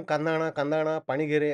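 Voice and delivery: mild urgent calling out; crowd outcry. Acted. Bystanders calling for onion and water after accident, urgent cry. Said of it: "अशी ओरड झाली".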